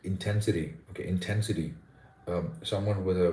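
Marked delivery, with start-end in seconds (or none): 0.0-1.7 intensity with the stress on TEN; stress on second syllable. Shown as a demonstration. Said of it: "is stressed on the second syllable".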